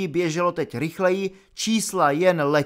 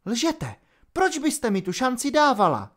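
higher, sharp disbelieving challenge; defiant young captain; 9 semitones higher than usual. A narrator's reading. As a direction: throw the accusation back at her. Holly defiant. (vzdorovitě, vyšším hlasem)

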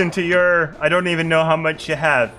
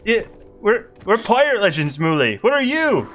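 put-on pirate accent; 4 semitones higher than usual. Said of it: "your fail f-ing pirate accent".

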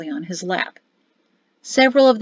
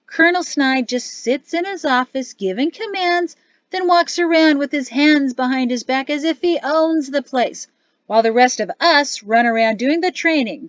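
brash soldier ranting to his mates; 5 semitones higher than usual. Acted. Sergeant complaining about his colonel.

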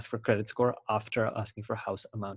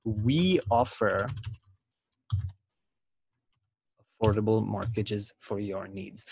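slow conversational rephrase; slower than usual. Shown as a demonstration. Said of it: "We can say".

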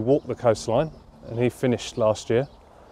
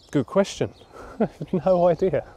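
laughing, higher-pitched admission; amused laugh; 8 semitones higher than usual. Real, not acted. Cyclist stumped by an interviewer's question, laughing. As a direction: laugh off not knowing.

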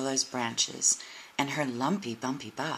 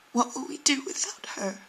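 whisper; 11 semitones higher than usual. Acted. Little Tree grieving for friend.

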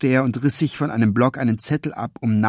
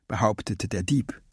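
plain reading voice

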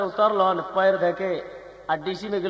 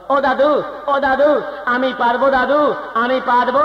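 urgent Bengali babu, high and loud; desperate Bengali plea, pitched up; Bengali accent in Hindi; 7 semitones higher, 5 dB louder than usual. Acted. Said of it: "फिर बंगाली बाबू कहत हन".

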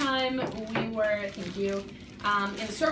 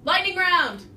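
excited; 5 semitones higher, 7 dB louder than usual. Real, not acted. Repeating the challenge name.

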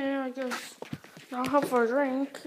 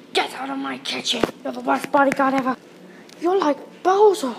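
angry scolding; 7 dB louder than usual. Pretend. Peach throwing bodyguard out.

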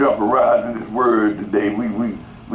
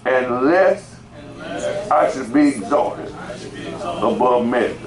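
"Unless" held and lifted, then a pause; phrase-by-phrase reading; slower than usual. Shown as a demonstration. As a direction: break it up: "Unless", pause, "I should be exalted", pause, "above measure". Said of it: "let me say it like this".

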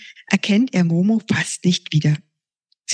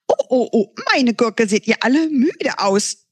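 a hint of bubbly chatter, higher; bubbling on; 5 semitones higher than usual. The voice bubbles at the sleepy kids, lightly bubbly. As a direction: let it bubble out. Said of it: "sprudelt die Stimme weiter".

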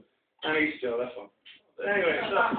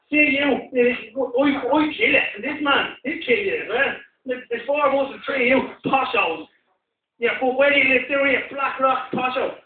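high loud thug ranting, dragged out; mock knacker threat; 8 semitones higher, 3 dB louder than usual. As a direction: rant at the posh kid like a street thug. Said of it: "knackers threaten him".

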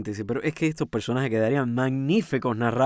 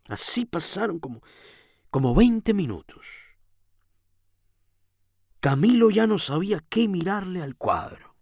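animated storytelling with lingering emphasis; story narration; 4 semitones higher than usual. A narrator's reading. Reading the tale of Camilo before the painting, animated narration. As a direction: tell the story with lively rises and pauses.

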